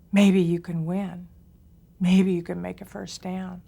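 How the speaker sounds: loud, slow hedging cheer; mock cheerleader yell. Shown as a demonstration. Teacher mocks a cheerleader yelling maybe. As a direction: yell a half-hearted cheer from the sidelines. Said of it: "You've never seen a cheerleader yell and scream".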